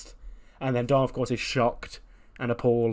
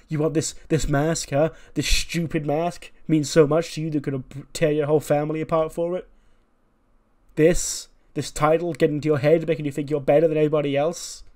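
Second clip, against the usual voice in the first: higher, indignant questions; heated confrontation; 4 semitones higher, 4 dB louder than usual. Acted. Father confronts his son over mask and title, indignant. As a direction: scold him, pitch held up and pressing.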